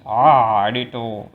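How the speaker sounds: hint of a mock Austrian accent, loud opening "Ah"; half-finished Austrian accent impression. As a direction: briefly attempt an Austrian accent. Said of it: "talking with his weird-ass Austrian accent".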